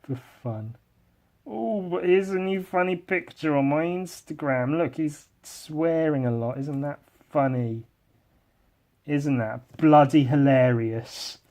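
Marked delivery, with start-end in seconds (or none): 1.5-11.4 lightly voiced mocking persona; a hint of put-on sarcastic host voice; character voice. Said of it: "break out of my character voice".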